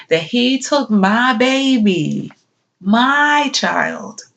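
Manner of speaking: high, wounded outcry; anguished protest. Acted. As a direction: cry out over a child taken from you. Bereaved mother questions God.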